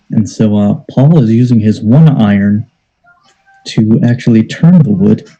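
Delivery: low hushed golf announcer voice; golf commentator. Acted. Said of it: "I'm gonna do a golf voice right now".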